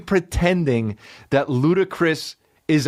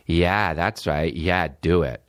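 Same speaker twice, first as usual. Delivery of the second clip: encouraging guy; 8 semitones lower than usual. Acted. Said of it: "a gay guy that's like".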